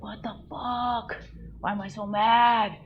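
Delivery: mock exasperated cry; retold angry venting. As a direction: re-enact venting alone on the couch. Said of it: "I'm screaming it out".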